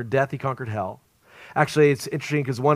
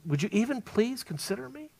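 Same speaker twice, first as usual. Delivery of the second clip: humble plea; 9 semitones higher, 7 dB quieter than usual. Retold or imitated. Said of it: "he's so humble".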